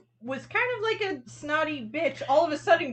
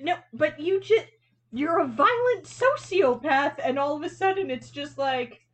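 mock fragile victim; 5 semitones higher than usual. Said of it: "And I'm like".

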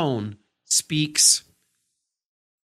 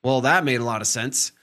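dry, lightly sarcastic remark; mild sarcasm. Shown as a demonstration. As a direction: say it with a hint of mock praise. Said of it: "I don't wanna use sarcasm like".

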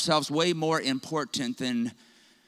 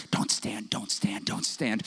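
soft, low mock whisper of the crowd; quiet, low hushed repetition; imitating a whisper; 9 semitones lower, 6 dB quieter than usual. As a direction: hush it like people murmuring in the pews. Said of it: "I can hear people whispering".

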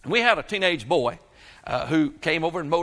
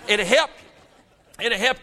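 slow, laughing and higher; 6 semitones higher, 4 dB louder, much slower than usual. Real, not acted. Preacher teasing the congregation with a laugh.

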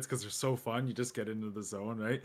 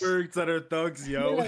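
laughing; 5 semitones higher, 4 dB louder, slower than usual. Real, not acted. Laughing while quoting the website.

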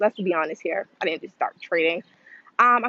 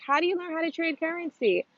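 curious beginner; 10 semitones higher than usual. Retold or imitated. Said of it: "a lot of people are like".

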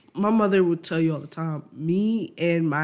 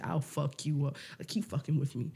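low threat; 3 semitones lower, 10 dB quieter than usual. Retold or imitated. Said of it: "the way they say".

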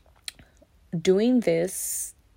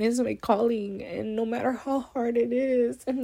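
holding back tears; 3 semitones higher than usual. Real, not acted. Podcaster to listeners, near tears about her calling. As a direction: voice lifted, on the edge of tears. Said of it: "Oh, I'm gonna cry".

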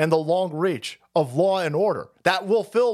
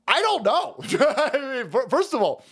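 laughing; 7 semitones higher than usual. Real, not acted. Laughs at being asked about Argentina.

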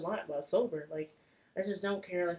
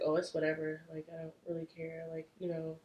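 nonchalant; 3 dB quieter than usual. Retold or imitated. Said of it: "I'm extremely nonchalant".

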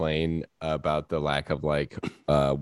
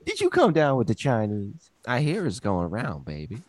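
sassy auntie voice; 5 semitones higher, 5 dB louder than usual. Pretend. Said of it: "more impression".

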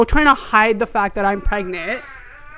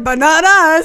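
giggling tease; 6 semitones higher, 7 dB louder, slower than usual. Retold or imitated. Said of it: "Cass and I are like".

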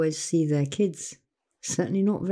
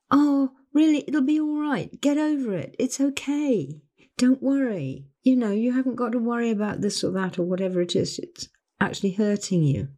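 higher, breezy brush-off; dismissive reassurance; 3 semitones higher than usual. Retold or imitated. People brushing off her worries, higher and breezy. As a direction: wave her worries away lightly, pitched up.

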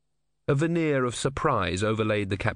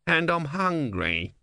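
grumbling tortoise; 7 semitones higher, slower than usual. A narrator's reading. Tortoise god complaining to Brother.

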